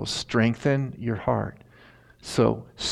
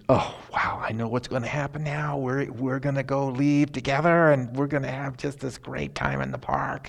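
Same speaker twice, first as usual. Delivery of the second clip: excited dog; 4 semitones higher than usual. Pretend. Voicing the dog's excited thoughts.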